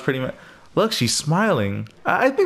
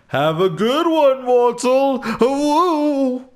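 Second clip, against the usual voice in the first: much higher and louder, cheery divine send-off; high mock god farewell; 9 semitones higher, 4 dB louder, much slower than usual. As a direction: wave off the mortal grandly. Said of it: "For I am God".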